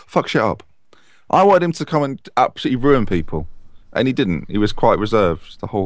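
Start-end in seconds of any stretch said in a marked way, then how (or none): 0.1-0.6 under-the-breath whisper; whispered swear. Real, not acted. Whispering a swear to the listeners. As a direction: whisper the swear word aside. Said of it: "excuse my language here, folks".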